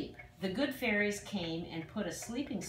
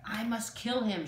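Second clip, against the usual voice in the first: in a rage; 4 semitones higher than usual. Acted. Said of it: "she flew into a rage".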